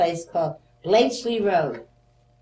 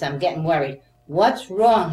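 worried yell; 7 dB louder than usual. Retold or imitated. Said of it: "She's yelling at me".

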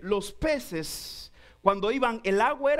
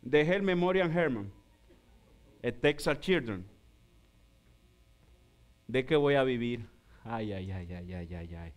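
low, moaning ay ay ay, much softer; mock lament; 11 semitones lower, 4 dB quieter than usual. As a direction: groan a comic lament low and quiet. Worried doctor lamenting, low moans.

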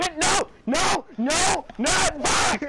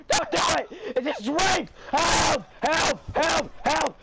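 mock yell.

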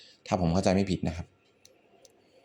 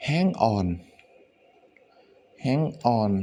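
higher, louder hero call; Spider-Man; 4 semitones higher, 4 dB louder, much slower than usual. Acted. Teacher quoting a superhero's line, called out higher. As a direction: call it out twice, like a movie hero. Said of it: "ที่ Spider-Man มันพูดว่า".

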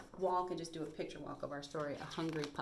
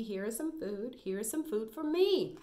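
little puppy; 3 dB louder than usual. Acted. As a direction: build up like a puppy finding food. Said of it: "said the little puppy".

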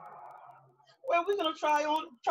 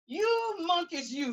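scolding; 4 semitones higher than usual. Acted. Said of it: "he said, shaking his finger at them".

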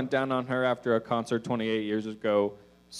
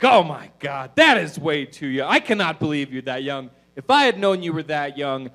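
louder, alarmed rant; mock freak-out; 6 dB louder than usual. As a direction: panic at how young he is. Lady freaks out at his age.

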